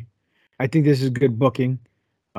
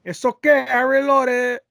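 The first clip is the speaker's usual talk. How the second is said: mock high voice; 9 semitones higher than usual. Host answering in mock voice.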